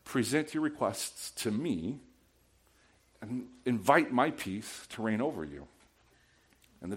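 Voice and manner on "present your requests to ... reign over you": softer, gentle reassuring voice; calm them, come back here; God reassuring. Retold or imitated. God answering the anxious believer, softly reassuring. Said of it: "And God's like".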